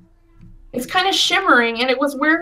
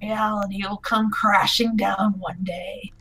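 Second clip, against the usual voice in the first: Freddy's voice; 4 semitones lower, 5 dB quieter than usual. Acted. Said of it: "it sounds kinda like Freddy".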